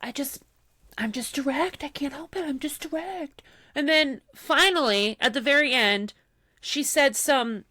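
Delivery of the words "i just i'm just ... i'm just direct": softer, higher whiny mimic of her excuse; whiny mock. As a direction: pout it out, feebly defending yourself. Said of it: "She's like".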